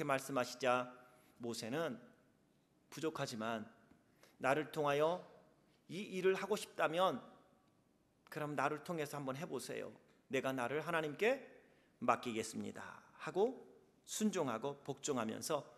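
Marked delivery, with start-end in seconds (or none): 2.9-13.0 순종하는 모세. Acted. 모세가 순종하며 답함.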